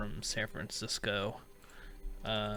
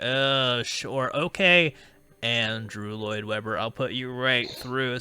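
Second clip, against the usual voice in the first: sarcastic; 4 dB louder, slower than usual. Retold or imitated. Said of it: "And I was like".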